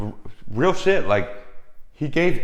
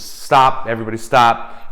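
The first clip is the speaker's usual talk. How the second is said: photographer halting the shoot; 3 dB louder than usual. Retold or imitated. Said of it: "photographer stops and says".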